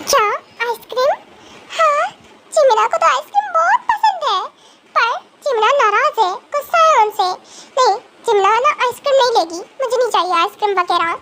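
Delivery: put-on a kid torn between pride and ice cream; sulky young girl. Sulking girl pretending not to want the ice cream.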